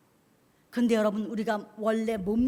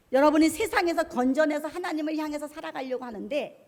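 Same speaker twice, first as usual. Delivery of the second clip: usual speaking voice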